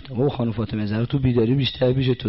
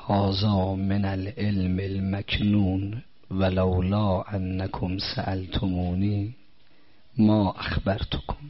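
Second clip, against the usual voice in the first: slow, deliberate Arabic quotation; slow reverent recitation; hadith recitation; 3 dB quieter, much slower than usual. Acted. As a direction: read out the hadith slowly and solemnly.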